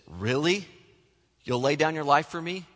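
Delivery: a light, doubting rise on Really; mildly sarcastic, questioning his promise; a hint of disbelieving sarcasm. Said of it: "The sarcastic Jesus".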